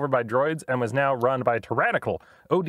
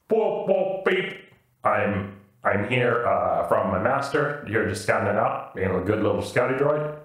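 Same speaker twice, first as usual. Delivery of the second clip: beep-boop droid talking in a put-on voice; 5 semitones lower, slower than usual. Droid greets the players with beeps. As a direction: play the little scout droid with beeps. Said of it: "the droid spoke to them".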